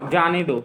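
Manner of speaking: जाने दो set apart as its own falling phrase; separate phrase after comma. Shown as a demonstration. Teacher completing the moved-comma example, जाने दो set apart. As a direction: let जाने दो fall, detached from मत. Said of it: "अल्पविराम लगाएंगे मत के बाद".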